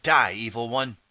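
mild scream. Acted. Hero shoving the Emperor over the railing, half screamed. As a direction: cry out with moderate force, hitting the first word. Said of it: "you scream".

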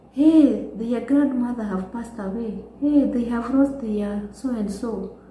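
loud, eager gossiping call. Retold or imitated. Neighbour spreading news of a death, loud gossip. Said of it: "they can even call".

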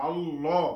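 আল্লাহ with a dark L and rounded O, "Allaw"; heavy L. Shown as a demonstration. Teacher explains the L after zabar, heavy L. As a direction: thicken the L of আল্লাহ. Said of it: "তখন ল উচ্চারণ হবে".

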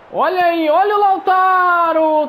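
excited. Real, not acted. Striker breaks through on goal.

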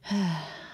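long weary sigh of giving in; resigned sigh. Acted. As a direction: sigh as if it costs you everything. Resigned before toasting Kaiba.

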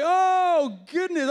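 high, loud strained cry; high loud yelp of strain; arm groaning in strain. Retold or imitated. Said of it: "my arm's like".

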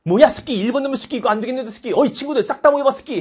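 high, agitated cry of alarm; mock startled Russia. Russia, startled, calling its friends together, mock alarm. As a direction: burst out loudly, then summon allies in a high voice. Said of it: "깜짝 놀랍니다".

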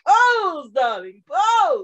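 1 imitating Mo. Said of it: "was like".

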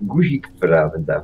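low, slow and quiet dismissal; a hint of the unflappable uncle, unhurried; calm uncle's retort. Uncle calmly dismissing his nephew's news, low and slow. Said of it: "zawsze mówił spokojnie".

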